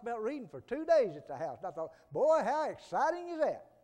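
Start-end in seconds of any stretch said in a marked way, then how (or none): 2.1-3.7 high, loud sarcastic quip; mock how dull it sounds; sarcastic mock excitement. Mocking reading talk.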